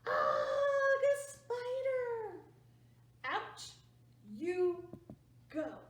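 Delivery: slow, high, loud ugh of disgust; hammed-up disgusted yell at a spider; disgusted shout. Family shoos the spider.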